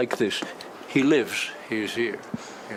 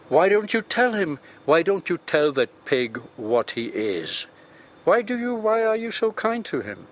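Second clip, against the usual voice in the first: retold anger; 5 semitones higher than usual. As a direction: spit it at the prisoner like a furious cop. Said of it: "one of them got angry".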